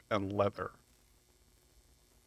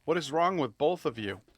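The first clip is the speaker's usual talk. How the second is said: disgusted rant; 5 semitones higher, 4 dB louder than usual. Retold or imitated. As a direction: recoil from the stink as you say it. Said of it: "And I'm like".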